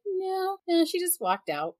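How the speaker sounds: high, casual, overly calm reply; retold breezy phone answer; too calm. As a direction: brush it off lightly, imitating yourself. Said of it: "too calm".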